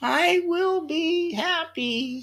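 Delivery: very high, slow, drawn-out, doubtful, unsure voice. Demonstrating how a spoken intention can sound unsure, doubtful, unsure tone. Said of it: "Because that's what your voice says".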